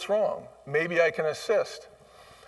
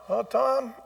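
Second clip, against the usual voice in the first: fond "Oh, Tom"; 7 semitones higher than usual. Shown as a demonstration.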